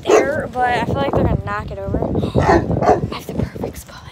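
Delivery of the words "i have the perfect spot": excited realization. Real, not acted. Sudden idea, gasps.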